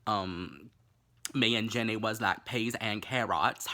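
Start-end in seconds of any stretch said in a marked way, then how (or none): 1.3-3.7 movie quote. Retold or imitated. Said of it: "take a drink every time Jenny".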